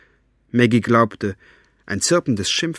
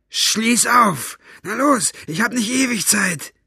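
high, raised angry voice; impatient order; 11 semitones higher, 4 dB louder than usual. Acted. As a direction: order a slow underling to hurry up. Basta orders guard to unlock.

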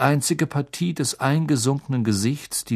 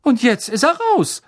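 higher, louder gossipy conductor voice; chatty bus conductor; 10 semitones higher, 5 dB louder than usual. Acted. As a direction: play Stan as an eager young gossip. Stan voiced by narrator.

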